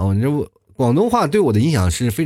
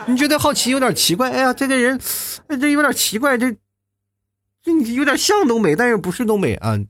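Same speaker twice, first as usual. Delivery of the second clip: amused puzzlement; 12 semitones higher than usual. Acted. Laughing mock puzzled voice.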